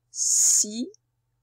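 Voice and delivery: "Cinéma" slowly, a pause after each syllable. Shown as a demonstration. Teacher locating S in the first syllable, "Cinéma" broken into separate syllables. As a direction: split "Cinéma" into three separate beats. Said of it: "C'est bien dans la première syllabe".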